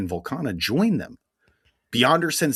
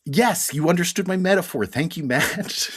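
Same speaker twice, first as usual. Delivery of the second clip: sarcastic praise; 6 semitones higher than usual. Acted. Teasing praise for cohost.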